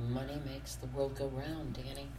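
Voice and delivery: soft, understated sarcasm; sarcastic. Real, not acted. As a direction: say it quietly, tongue in cheek. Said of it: "I was being sarcastic".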